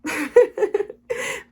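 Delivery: high, loud laugh of mock bewilderment; confused laugh. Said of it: "you get really confused".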